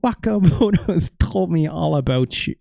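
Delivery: put-on Irish accent drifting off course; slipping Irish accent. Streamer reading Dynamite Kid, Irish accent gone astray. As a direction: try Irish and let it wander. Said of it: "It doesn't sound very Irish anymore".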